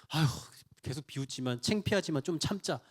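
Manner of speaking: sighing, low and soft, putting up with it; mock a meek believer quietly enduring shame; embarrassed resignation. Believer telling himself to endure ridicule, meekly resigned. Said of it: "이런 자세로 버티는 게 아니라는 거죠".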